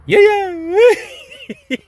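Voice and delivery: high, loud laughing yeah; cracking up. Real, not acted. Laughing outburst.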